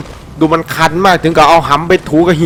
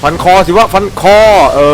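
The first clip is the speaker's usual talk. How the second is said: yelling at the game to go for the nape; urgent yell; 2 semitones higher than usual. Real, not acted. Gamer urging his soldier to cut the neck, excited yell.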